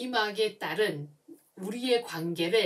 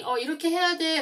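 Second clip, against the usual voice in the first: parent giving an order; 8 semitones higher, 5 dB louder than usual. Retold or imitated. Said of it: "라고 얘기했을 때".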